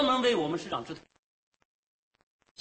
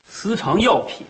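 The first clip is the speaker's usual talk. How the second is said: incredulous; 7 dB louder, slower than usual. Acted. Doctor accused of hoarding medicine.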